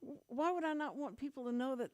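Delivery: high-pitched, incredulous what; retold disbelief, pitch jumping up then easing; startled objection. Retells her startled objection to request.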